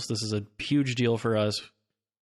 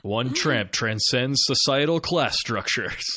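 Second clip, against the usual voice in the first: movie trailer voice; slower than usual. Pretend. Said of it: "trailer voice guy version of this".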